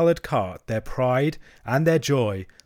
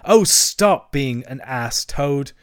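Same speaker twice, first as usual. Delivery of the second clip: slow, exasperated plea, louder at first; despairing cry; 3 semitones higher, 6 dB louder, much slower than usual. Acted. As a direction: plead in mild despair. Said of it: "cried the mole despairingly".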